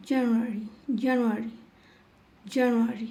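"জানুয়ারি" with the R sounded before final "i"; careful repeated "জানুয়ারি", R audible; R pronounced. Shown as a demonstration. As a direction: drill "জানুয়ারি" keeping its R. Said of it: "এখানে আর এর উচ্চারণ হয়েছে".

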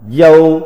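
"dâu" said as a Mandarin syllable, level tone; Mandarin pronunciation. Shown as a demonstration. Teacher reads out a character's Chinese reading, "dâu" in level-toned Mandarin. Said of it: "Phiên âm tiếng Trung đọc là".

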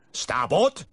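high, loud helm call; called order. A narrator's reading. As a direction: call the order across the bridge. Pilot calling a helm order.

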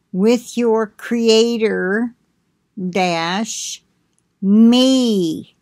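measured, solemn prophetic delivery; prophetic message reading. Acted. Reading God's message to the listeners, solemn and measured. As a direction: pronounce the warning like an oracle.

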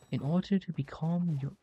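a hint of a wise uncle's advice; wise old mentor voice. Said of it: "Why am I talking like that?".

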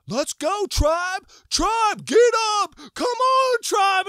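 high, full-volume rallying yell. Retold or imitated. Leader rousing the tribe to get up, yelling. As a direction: holler it like you are rousing a crowd. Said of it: "then he starts yelling".

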